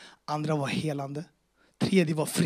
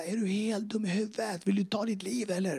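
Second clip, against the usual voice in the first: mimicked angry police yell; 6 semitones higher than usual. Police berate the man they tackled, mildly mock yelling. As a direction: imitate an officer's scream with raised pitch only. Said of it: "skriker i mitt öra".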